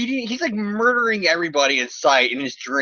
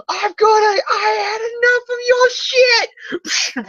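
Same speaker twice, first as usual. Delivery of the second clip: mock yell. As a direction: bellow it like an action hero. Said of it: "he says".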